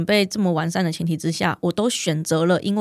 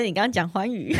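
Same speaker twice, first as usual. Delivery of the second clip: laughing; 3 dB quieter than usual. Real, not acted. Teasing host's mispronunciation.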